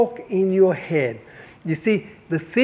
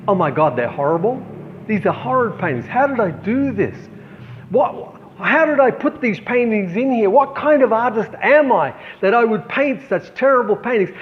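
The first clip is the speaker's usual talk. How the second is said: higher, rising horror at her own paintings; dismayed self-criticism; 4 semitones higher than usual. Retold or imitated. Artist at her own show, recoiling from her paintings in dismay. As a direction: let the panic climb as you tear yourself down. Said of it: "I began to speak like this to myself".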